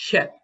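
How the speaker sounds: "hep" met zware keel-h; emphatic H. Shown as a demonstration. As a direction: hit the h hard in "hep". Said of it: "symbol for the emphatic H".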